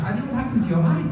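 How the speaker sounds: sly mock concern. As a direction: needle him with a fake innocent question. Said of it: "to make fun of him".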